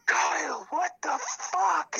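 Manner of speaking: high, loud exasperated outburst, drawn out; retold angry partner. Caller mimics partner catching him at it, high indignant yell. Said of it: "And she's like".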